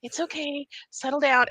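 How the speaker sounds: whisper, soothing them down; whispered calming. Retold or imitated. Teacher calming cellmates at night, whispered. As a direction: hush the room like settling kids.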